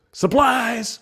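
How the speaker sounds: high, loud comic "surprise!" yell; spring out and shout it far up in pitch; hammed-up jump-out-and-startle cry. Worker springs out shouting pun on surprise.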